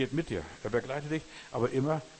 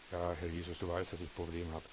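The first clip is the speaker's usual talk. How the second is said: whiny prayer; 6 semitones lower, 6 dB quieter than usual. Retold or imitated. Mocking a whiny complaining prayer.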